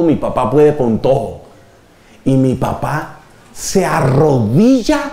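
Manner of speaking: slow, lightly voiced child proud of dad, building to amazement; a hint of an awestruck kid, drawn out and rising at the end; admiring child. Child boasting about dad who kneels before Jesus, building wonder.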